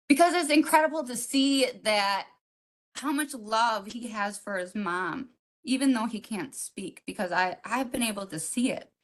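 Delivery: holding back tears while speaking; getting emotional. Real, not acted. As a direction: voice welling up with real emotion, then softening. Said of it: "I got a little emotional there".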